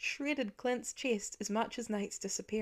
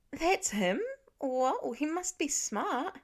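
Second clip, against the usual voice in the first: surprised; 6 semitones higher, slower than usual. A narrator's reading. Cooper learns the tutor is Pete, surprised. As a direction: let it dawn on you.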